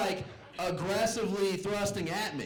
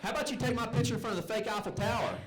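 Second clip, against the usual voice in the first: grandma from the back; 6 semitones higher than usual. Retold or imitated. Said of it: "I hear from the back".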